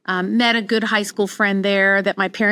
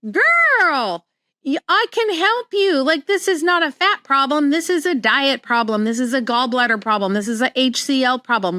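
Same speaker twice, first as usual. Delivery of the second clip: much higher, urgent inner plea to a friend; mock inner scream; 5 semitones higher than usual. To a bloated friend at the spa, a high mock inner scream. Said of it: "everything in me is screaming".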